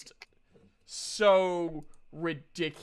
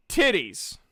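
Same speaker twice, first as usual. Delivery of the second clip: deadpan pitch; 6 dB louder than usual. Pretend. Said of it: "go up to the video, go".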